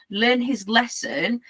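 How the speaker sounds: "learn his lesson" drawn out slowly as a doubted phrase; slow, sceptical air quotes on "learn his lesson"; spoken quotation marks. Shown as a demonstration. Doubting the handler's reasoning, "learn his lesson" slowly set in quotes. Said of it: "quotation marks".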